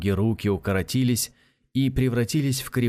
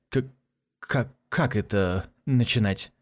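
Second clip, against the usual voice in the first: stuttering. Acted. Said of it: "заикаясь, пробормотал Касмаля".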